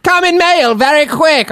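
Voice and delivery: high slow Slavic shop voice; hammed-up foreign seller; mock broken English.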